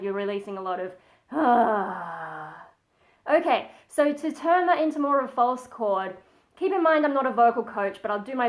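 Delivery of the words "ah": relaxed sigh. Shown as a demonstration. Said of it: "sort of relaxing kind of".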